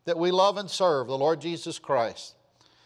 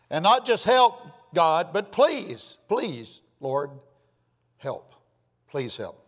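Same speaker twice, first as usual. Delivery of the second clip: fading pleading prayer; slower than usual. Retold or imitated.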